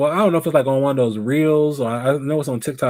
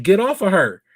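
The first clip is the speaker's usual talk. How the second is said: mock screaming at him; 5 semitones higher than usual. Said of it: "I would have been screaming something totally different".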